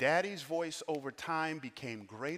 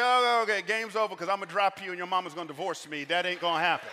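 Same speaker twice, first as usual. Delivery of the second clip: loud, high, rapid mock panic; alarmed father backing out; 4 semitones higher, 5 dB louder, faster than usual. Dad to kids climbing too high, mock alarm. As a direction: call it off fast and loud.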